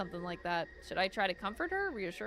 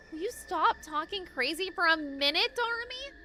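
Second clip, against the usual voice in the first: exasperated; 8 semitones higher than usual. Acted. Exasperated plea to Darmy.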